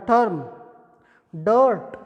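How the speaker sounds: टर्म with the er sound; model pronunciation. Shown as a demonstration. Teacher to students, demonstrating the er vowel. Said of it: "ये है इस sound के example".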